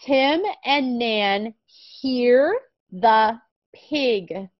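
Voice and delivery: very slow, word-by-word reading; slow reading aloud. Shown as a demonstration. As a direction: model the sentence slowly for a child. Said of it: "let's read".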